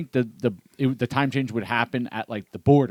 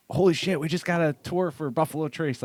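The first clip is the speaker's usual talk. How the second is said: excited disbelief; 5 semitones higher than usual. Retold or imitated. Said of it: "I'm like".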